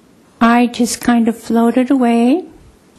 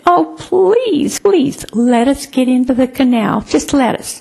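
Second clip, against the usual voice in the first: retold pleading. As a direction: plead lightly like a child coaxing a parent. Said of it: "begged, we pleaded".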